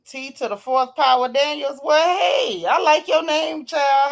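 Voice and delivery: light up at a funny name; surprised, excited greeting; delighted. Real, not acted.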